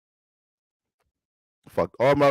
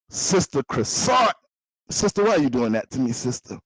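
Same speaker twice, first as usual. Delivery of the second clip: pastor calling out; 3 semitones higher than usual. Acted. Pastor calling Sister Croissant, mock preaching. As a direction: sing out her name from the pulpit.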